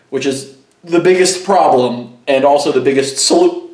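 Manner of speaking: talking through hiccups; hiccuping mid-sentence. Real, not acted. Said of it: "I'm hiccuping".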